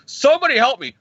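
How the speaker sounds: high-pitched mock distress; cry for help. Half blown-up Jarvis begs for rescue, high mock distress.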